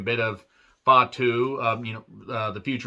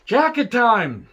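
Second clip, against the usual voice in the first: slow, drawn-out announcer call, higher and louder; mock ring announcer; 8 semitones higher, 5 dB louder, much slower than usual. Mocking the gimmick, a slow hammed-up announcer call. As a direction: announce it like a big entrance.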